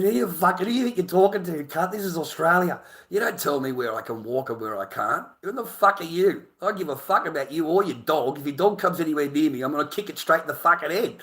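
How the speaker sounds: retold yelling at owner. Retold shouting match at dog owner.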